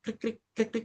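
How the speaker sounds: imitated cricket chirping; quick, high little cricket noises; cricket chirps. Teacher mimics crickets filling an awkward silence, chirping. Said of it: "ada suara jangkrik".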